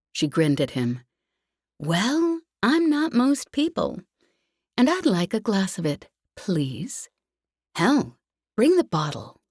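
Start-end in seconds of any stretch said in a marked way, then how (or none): 1.8-9.4 put-on a bold young woman, a touch higher and cocky; Jez's bold voice. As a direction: Jez daring the server with brash confidence. Jez's bold order at the bar.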